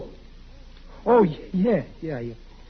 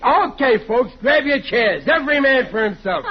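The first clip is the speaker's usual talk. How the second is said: calling out; 5 semitones higher than usual. Acted. Calling family to dinner table.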